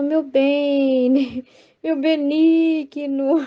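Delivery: slow, tender, half-laughing; intimate and tender. Shown as a demonstration. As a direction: coo it like a loving mother to her baby. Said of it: "Porque ela tem intimidade com Jesus".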